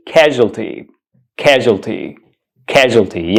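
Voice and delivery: "casualty" as a careful model; "casualty" in three syllables, KAZH-ul-tee; pronunciation demo. Shown as a demonstration. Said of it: "The correct pronunciation of this word".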